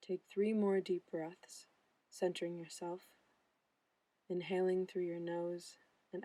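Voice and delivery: calm meditation guide, long pauses between phrases; unhurried, even delivery, leaving room to breathe; guided meditation. Acted. Mindfulness intern guiding listeners through breathing and body relaxation, guided meditation.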